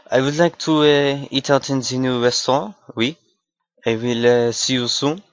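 put-on a French accent wanting the new restaurant. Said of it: "random accent skits".

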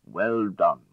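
excited praise. A narrator's reading. Lord praising the capture.

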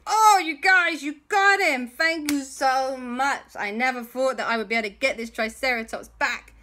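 put-on a worried boy confessing, then getting wound up; Andy's high voice. Andy confessing to his friends, high and anxious.

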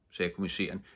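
ordinary delivery

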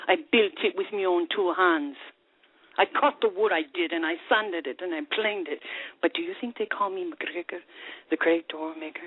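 lilting Scottish brogue as the barman; Scottish pub accent, rolled and proud. Acted. Joke teller voicing a bitter Scottish barman in accent. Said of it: "we definitely applaud you on your accent".

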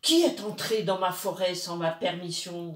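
léger grondement, plus fort, de l'esprit des bois; grondé. Acted. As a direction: fais gronder l'esprit qui protège sa forêt. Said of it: "gronda-t-il". (l'esprit des bois gronde un peu plus fort)

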